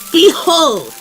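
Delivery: loud, high, showy proclamation; grand unveiling. Acted. Baker revealing cupcakes, grand proclamation. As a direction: present it like a great treasure.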